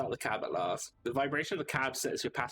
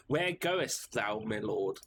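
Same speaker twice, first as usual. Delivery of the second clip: grand, slow knight voice; pompous knight; 3 semitones lower, much slower than usual. Acted. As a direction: play the stiff noble knight. Voices knight in mock Old English.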